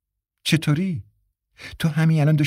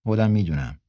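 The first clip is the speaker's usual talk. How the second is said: polite; 4 semitones lower than usual. A narrator's reading. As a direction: calmly concede the point with courtesy. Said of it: "با لحنی مؤدبانه گفت".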